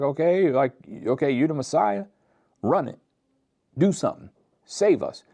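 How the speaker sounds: high, loud sneering mock voice; mocking taunt. Criminal on the cross taunting Jesus, high sneering mockery. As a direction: taunt him like a scoffer daring a fake. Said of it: "like, mocking him".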